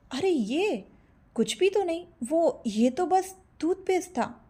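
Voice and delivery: lie badly and sheepishly; nervous fib. A narrator's reading. Rajeev nervously lying. (झेंपते हुए ऊँची आवाज़ में झूठ)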